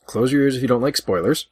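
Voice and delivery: normal talking voice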